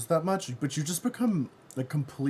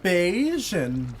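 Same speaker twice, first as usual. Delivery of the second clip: laughing; 9 semitones higher, 5 dB louder, much slower than usual. Retold or imitated. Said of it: "I was laughing so hard".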